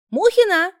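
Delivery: high loud call of a name. A narrator's reading. Nurse calls the patient in, loud high call. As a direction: call her in from the office.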